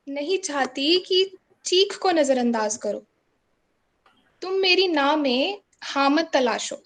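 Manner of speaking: measured Hindi spoken-word delivery; insistent protest poem, repeated lines pressed home; poetry recitation. Acted. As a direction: recite line by line, leaving space between.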